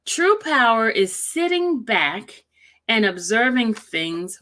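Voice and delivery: measured read-aloud with punched key words; emphatic quote reading. Acted. Streamer reading a wise quote to viewers, emphatic. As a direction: read out a quote with weight, slowly.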